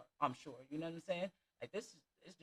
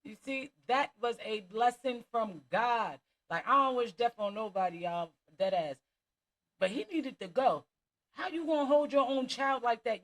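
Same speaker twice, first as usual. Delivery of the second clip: louder, indignant preaching at the hostage-taker; outraged rant; 3 semitones higher, 7 dB louder than usual. Real, not acted. Vlogger condemns the father who held his child, outraged and loud. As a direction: let the anger at him come out full.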